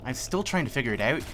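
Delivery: muddled Scottish-Irish-English accent; passable Scottish accent. Shown as a demonstration. Player unsure of own accent, speaking in makeshift Scottish brogue. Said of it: "what I'm supposed to sound like when I'm talking like this".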